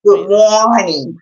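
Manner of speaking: bad New York accent. Shown as a demonstration. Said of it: "That's a bad New York accent".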